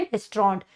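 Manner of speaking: रेस्टोरेंट said as "restront", two syllables; correct restaurant. Shown as a demonstration. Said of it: "क्या बोलते हैं".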